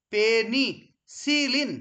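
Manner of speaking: "পেনিসিলিন" slowly split as পে, নি, সি, লিন; slow teacher's breakdown of "পেনিসিলিন"; syllable by syllable. Shown as a demonstration. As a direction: draw out "পেনিসিলিন" in separate syllables with small gaps. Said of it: "পেনিসিলিনকে যদি আমি ভাঙি".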